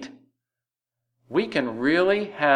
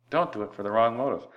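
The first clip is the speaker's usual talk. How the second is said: quick repeat; 3 dB quieter, much faster than usual. Shown as a demonstration.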